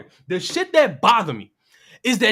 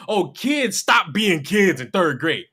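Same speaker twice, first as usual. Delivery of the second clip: mocking; 5 semitones lower, slower than usual. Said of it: "let's not act as if".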